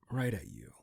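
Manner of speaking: hushed, ominous warning; menacing whisper. Acted. Fixer warning the vigilante about the snitch, in a whisper. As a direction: lean in and breathe it like a threat.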